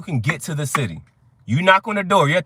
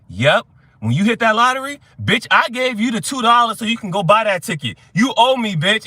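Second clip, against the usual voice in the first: loud, higher mock demand; pushy friend voice; 4 semitones higher, 4 dB louder than usual. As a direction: act out a friend demanding payback. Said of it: "a bitch was like".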